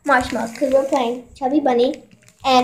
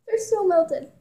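mouth full; 3 semitones higher, 8 dB quieter, slower than usual. Real, not acted. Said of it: "And we can't chew them".

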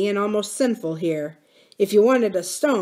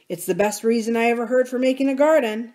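quick, delighted outburst, a touch higher; lively exclamation, a little faster; exclaiming; 5 semitones higher, faster than usual. Acted. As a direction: blurt it out, tickled by the idea. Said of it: "Samuel exclaimed".

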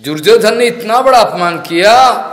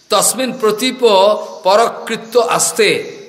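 slow, drawn-out scriptural quotation; measured recital of scripture; Sanskrit verse recitation; 3 semitones higher than usual. Real, not acted. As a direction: recite it syllable by syllable, slowly.

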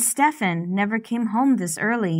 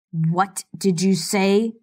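scowling. Acted. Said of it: "Stefan scowls".

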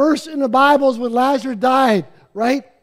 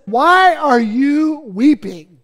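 slow angel voice; much slower than usual. Acted. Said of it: "the angel of the Lord said".

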